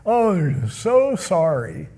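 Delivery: lightly put-on remorse; a touch of hammed-up sorry; mock weepy sorrow. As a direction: imitate a tearful apology, half-hearted. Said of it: "this weepy, "I'm sorry".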